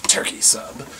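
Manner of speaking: whispered curt turkey sub; mock curt customer; muttered order. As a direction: toss it off under breath.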